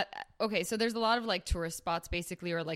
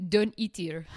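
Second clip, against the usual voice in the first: louder, amused imitation of a French accent; heavy French accent; 5 dB louder than usual. Telling customers where not to eat, heavy French accent. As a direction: imitate a bartender's thick French-accented English. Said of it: "very heavy accent".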